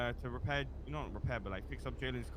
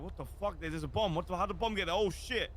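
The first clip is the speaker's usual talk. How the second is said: mock shock; 5 semitones higher, 3 dB louder than usual. Acting out the couple's feigned shock.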